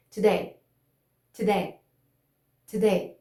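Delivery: "Today" with firm T and firm D; stressed DAY in "Today", no tap; unflapped T and D. Shown as a demonstration. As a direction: model "Today" three times with pauses, D a full stop sound. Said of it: "o D eu não posso usar".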